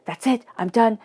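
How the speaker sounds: hammed-up storming off; mock angry outburst. Emotional water sign losing temper, mild mock yell. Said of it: "start yelling".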